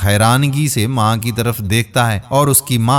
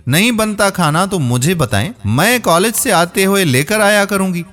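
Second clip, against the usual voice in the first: rude complaining rant, higher pitched; yelling at grandma; 5 semitones higher than usual. Acted. Granddaughter yelling at her grandmother about water and food. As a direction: snap at her grandmother, voice high. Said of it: "دادی پر چلانے لگی".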